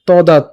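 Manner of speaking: "তদাত" stopped on a closed t; vowelless final t. Shown as a demonstration. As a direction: say "তদাত" with no vowel after the last t. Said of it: "হসন্ত পর্যন্ত উচ্চারণ করেছি".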